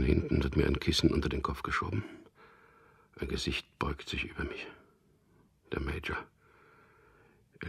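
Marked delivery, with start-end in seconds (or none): 3.2-4.7 whisper. Acted.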